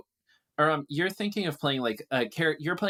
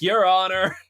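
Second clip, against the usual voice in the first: louder, higher, slow courtroom plea; demon prosecutor; 3 semitones higher, 5 dB louder than usual. Retold or imitated. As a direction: argue to the judge like a pompous lawyer. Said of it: "they're like".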